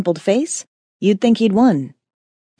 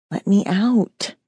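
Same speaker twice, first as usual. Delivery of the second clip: urging inner demon; slower than usual. Acted. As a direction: coax like a caged beast. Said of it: "she urged".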